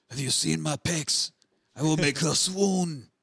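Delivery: put-on slow, lightly Belgian-accented boast; a hint of a preening action hero; lightly voiced Van Damme bragging; mock Van Damme. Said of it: "I'm sorry, Van Damme".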